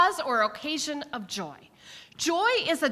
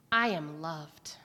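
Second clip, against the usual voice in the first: whispered; 8 semitones lower, slower than usual. Retold or imitated. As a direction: breathe it gently. Kids' affirmation, whispered ending.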